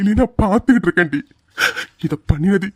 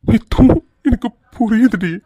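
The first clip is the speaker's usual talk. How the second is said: tearful understanding; 3 semitones higher than usual. Acted. Husband to his wife, tearful. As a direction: concede through tears.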